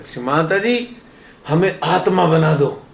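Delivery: mock proud plea, honorific rising at the end; proud request. Devotee before Shri Mataji asking to be made spirit, proudly. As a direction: imitate a devotee asking with pride. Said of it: "बड़े गर्व से कहते".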